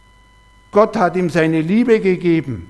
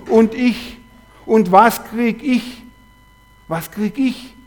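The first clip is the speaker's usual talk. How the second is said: whiny inner voice; 4 semitones higher, slower than usual. Retold or imitated. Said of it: "eine Stimme".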